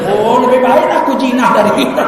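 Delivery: loud, laughing line of the joke; loud, laughing character retort; laughing punchline. Acted.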